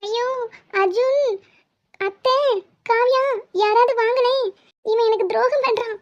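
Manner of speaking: high, wailing call to the family; hammed-up plea, calling everyone in; mock cry for help. Wife wailing to the family about her husband, mock distress.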